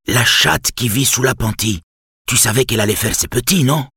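lightly voiced insistent old neighbour; old man voice. A narrator's reading. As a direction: press him like a stubborn old man. Old Spaniard Lucio insists.

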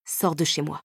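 quiet tearful order to leave; holding back tears. Acted. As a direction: order him out, fighting tears. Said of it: "lui ordonnai-je en retenant mes larmes".

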